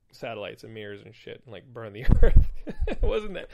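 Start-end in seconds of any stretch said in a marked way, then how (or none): 2.1-3.5 laughing through the words; amused, laughter spilling in. Real, not acted. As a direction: break into a laugh as you speak. Chuckles at the silly villain plan.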